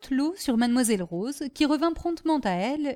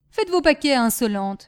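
mildly angry dismissal, raised at the start; 3 semitones higher, 5 dB louder than usual. Acted. Master dismissing his insolent servant, angry. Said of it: "Monsieur Delmy se fâcha".

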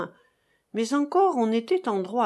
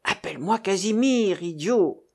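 louder, cross correction; irritated rebuke; 4 dB louder than usual. Acted. Disguised master scolds Hilaire for naming him, irritated rebuke. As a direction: snap it as a cross order. Servant scolds man for using title.

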